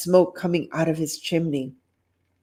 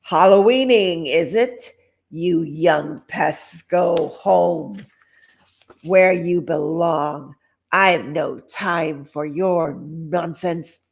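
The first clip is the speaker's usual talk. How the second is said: put-on grumpy old man; 3 dB louder, slower than usual. Grumpy old man scolding kids.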